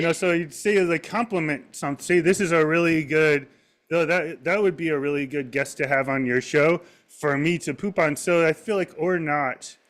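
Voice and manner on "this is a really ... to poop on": mock South American-ish accent. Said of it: "he would talk like this".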